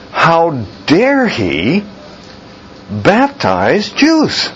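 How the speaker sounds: high, slow, outraged mock priest; mock outrage at John; indignant priests.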